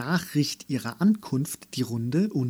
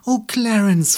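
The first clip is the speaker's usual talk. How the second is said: much higher and louder, jubilant; rejoicing; 9 semitones higher, 8 dB louder than usual. A narrator's reading. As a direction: stretch the Oh with overflowing joy. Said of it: "frohlockte sie". (frohlockend, viel höher und lauter)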